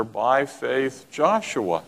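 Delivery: slow, drawn-out reading of "By faith Joshua."; expected line. Shown as a demonstration. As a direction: let "By faith Joshua." unfold slowly, as the obvious next line. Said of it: "You would expect in the sequence".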